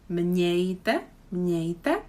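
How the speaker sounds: Mějte said with mě as mňe and a j glide; mňej sound. Shown as a demonstration. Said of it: "another mě. And the j".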